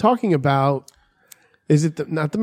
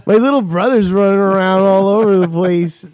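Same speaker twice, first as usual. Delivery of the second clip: put-on loud, slightly raised kid voice; eager kid; 3 semitones higher, 5 dB louder than usual. Friend playing a kid among older guys, loud and eager. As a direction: blurt it out like a hammed-up kid. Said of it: "I would be like the kid".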